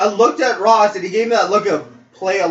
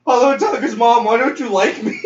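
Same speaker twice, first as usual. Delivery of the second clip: higher-pitched imitation of the hurt friend; mock wounded confrontation; 4 semitones higher than usual. Gullible friend confronting a mom in a retelling, mock wounded. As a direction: plead in mock hurt, close to laughing.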